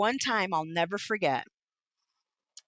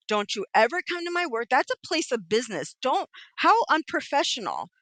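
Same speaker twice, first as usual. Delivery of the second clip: indignant telling-off; 5 semitones higher than usual. Retold or imitated. Retelling angry confrontation with husband at home.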